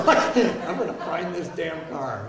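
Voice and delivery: slow, laughing self-mockery; laughing mock determination. Hungover man to himself, laughing mock resolve.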